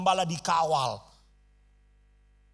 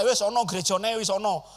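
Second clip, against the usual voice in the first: put-on Javanese-accented quote. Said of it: "Javanese words spoken".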